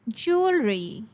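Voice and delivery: jewelry said JOOL-ree; teacher shows jewelry without a w sound. Shown as a demonstration. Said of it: "There will be no sound of W".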